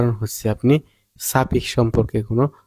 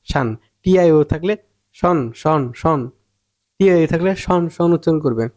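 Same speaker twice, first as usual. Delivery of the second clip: mocking cheap videos; 4 semitones higher than usual. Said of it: "সস্তা video".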